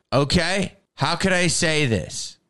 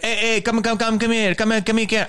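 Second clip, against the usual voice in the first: higher, pushy rapid come-on; scumbag guy; 7 semitones higher, much faster than usual. Retold or imitated. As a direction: mimic a creep pestering someone to come over. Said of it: "A guy that talks like that".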